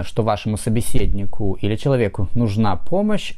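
normal talking voice

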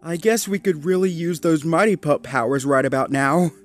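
wistful, lightly amused suggestion; faint smile. A narrator's reading. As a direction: say it through a small smile. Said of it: "said with a faint smile".

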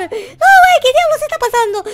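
high, loud cry of disbelief; shocked shout. Acted. Gamer sees his clone and yells in shock. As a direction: yelp it out in total shock.

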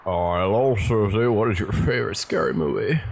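surfer dude voice. Acted. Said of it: "Why does Jessica sound like that?".

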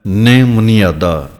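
ਨੇ ਮੁਨਿਆਦਾ slowly, first syllable held and stressed; long emphasized vowel. Shown as a demonstration. Teacher modelling the reading, ਨੇ ਮੁਨਿਆਦਾ with weighted first vowel. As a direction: lean on the long vowel in ਨੇ, then "muni-aadaa". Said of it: "Bihari ਦੀ ਆਵਾਜ਼ ਜ਼ਿਆਦਾ ਦੇ ਕੇ ਬੋਲਣਾ ਹੈ".

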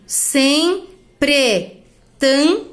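separated, stretched syllables; measured beats, pausing between syllables; syllable-by-syllable scansion. Shown as a demonstration. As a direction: sound out each syllable on its own. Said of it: "aqui também eu juntei".

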